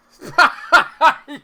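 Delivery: very loud, high burst of laughter. Real, not acted. Gamer in disbelief at his match, blasting out a loud laugh. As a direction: explode into a high, deafening laugh. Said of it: "Sorry to anyone that's having headphones there".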